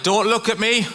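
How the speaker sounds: high, urgent pleading on every phrase; panicked plea. Retold or imitated. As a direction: beg them not to look, half laughing. Panicked after crashing into lady.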